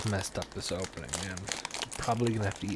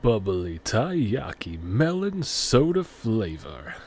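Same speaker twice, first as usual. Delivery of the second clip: announcer voice; 7 dB louder, much slower than usual. Acted. Announcing a snack name.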